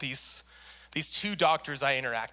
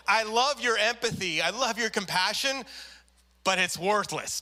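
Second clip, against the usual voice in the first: mock scolding; 3 semitones higher than usual. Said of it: "She was so mad".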